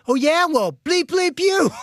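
high, loud mock shout; imitating her yell. Husband imitating wife cursing back, high mock shout. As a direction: shriek it back at him, one-upping. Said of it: "she yells back at me".

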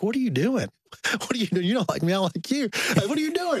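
high-pitched comic bewilderment; mock protest. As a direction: act out a baffled objection, voice rising high. Retold reaction to wife's approach, laughter.

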